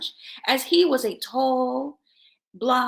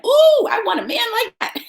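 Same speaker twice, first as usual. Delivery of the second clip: nonchalant and innocent; 10 semitones higher, 8 dB louder than usual. Retold or imitated. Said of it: "Quite nonchalantly and innocently".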